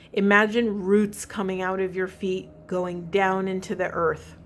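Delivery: measured meditation prompts, given space; guided grounding meditation. Real, not acted. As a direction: guide listeners gently down into their bodies.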